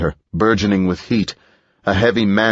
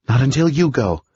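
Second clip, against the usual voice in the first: firm woman; 7 semitones higher than usual. A narrator's reading. Edith refuses to leave.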